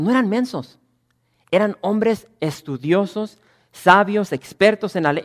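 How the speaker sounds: loud, rising sermon delivery; preaching at full force. Acted. Pastor denounces the Pharisees to his church, preaching loudly. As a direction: drive the point home to the congregation.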